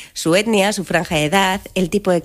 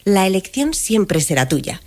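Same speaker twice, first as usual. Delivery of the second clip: AI voice. Acted. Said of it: "voz de inteligencia artificial".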